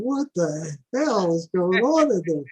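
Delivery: slow, stretched-out disbelief; mock astonished question; retold bafflement. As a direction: draw it out like a baffled onlooker. Dog handler's baffled reaction, retold.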